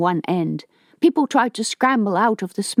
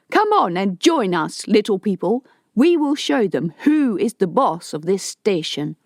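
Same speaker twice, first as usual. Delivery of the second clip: mild raised rallying call; yelling over the top. Acted. Harto calls the people to join him, mild yell. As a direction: shout above the loudspeaker to the crowd. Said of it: "Harto yelled over the top".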